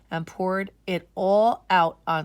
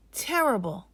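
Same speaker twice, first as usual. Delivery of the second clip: groaning; 4 semitones higher than usual. Acted. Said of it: "Aisha said with a groan".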